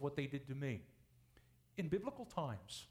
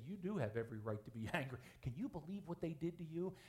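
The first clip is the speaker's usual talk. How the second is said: tempting Satan voice; 3 dB quieter than usual. Acted. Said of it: "Satan ... fan this flame ... to say".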